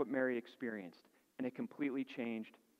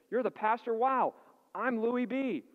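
put-on high, slowed, surprised drunk voice; tipsy stranger; 9 semitones higher, 5 dB louder, slower than usual. Stranger outside the church meets the pastor, tipsy and surprised. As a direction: play the slightly drunk man, amazed. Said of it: "And he said".

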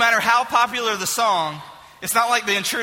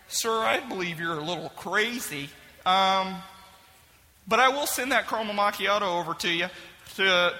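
lower, softer deadpan reply; dry barista, quieter; 3 semitones lower, 4 dB quieter than usual. Acted. Barista calmly dismissing the frantic caller, soft and deadpan. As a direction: politely brush off a lunatic. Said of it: "barista replies".

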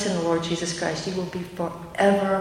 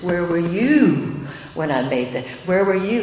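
a lightly voiced, booming God, louder; God's challenge; 5 dB louder than usual. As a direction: challenge Job as God would, with mild weight. God voiced rebuking Job.

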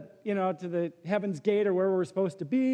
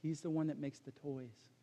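much softer, low deadpan reply; dry Hobbes; 5 semitones lower, 11 dB quieter than usual. Retold or imitated. Hobbes answering Calvin, soft deadpan. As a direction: drop the punchline quietly. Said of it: "Hobbes says".

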